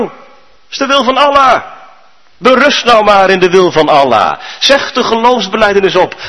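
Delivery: lightly voiced prophet urging submission; a prophet impatient with the man's fear; stern prophet. Mohammed tells man to submit.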